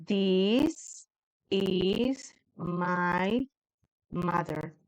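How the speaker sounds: a student trying "This is my mother" for the first time; broken-up hesitant "This is my mother"; unsure student attempt. Para que yo sepa cómo decirlo.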